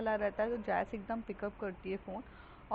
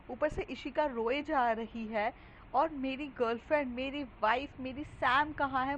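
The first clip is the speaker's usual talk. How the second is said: panicked yelling; 4 semitones higher than usual. Retold or imitated. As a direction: demand answers in a rising panic. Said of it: "phone पे बहुत ज़्यादा चिल्ला रही है".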